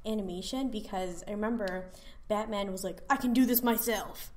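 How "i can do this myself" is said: sassy woman voice. Retold or imitated. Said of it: "he sounded like a black woman".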